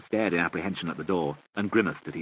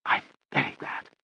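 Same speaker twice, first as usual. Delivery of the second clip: emphatic; 6 semitones higher than usual. A narrator's reading. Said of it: "said Lady Catherine emphatically".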